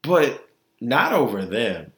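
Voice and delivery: NOT leaned on, slow and falling; not stressed. Real, not acted. Telling listeners her rating, stress on not. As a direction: lean on not, drawn out.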